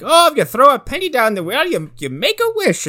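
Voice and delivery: high mock of the dad. Dad telling the girl about wishes, high mock voice. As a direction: voice the father up high. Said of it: "Mulligan's like".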